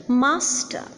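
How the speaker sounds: "master" with MAS prominent, "ter" weaker; first-syllable stress. Shown as a demonstration. Lecturer showing the stressed syllable, "master" stressed on its first syllable. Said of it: "the first syllable is more prominent".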